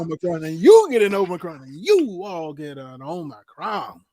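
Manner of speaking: loud hammed-up Oprah announcement; Oprah giveaway voice. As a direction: hand out prizes like a talk show host. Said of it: "you must be Oprah".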